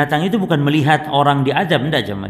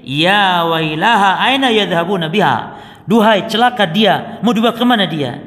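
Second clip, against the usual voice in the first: corpse wailing; 3 semitones higher than usual. Acted.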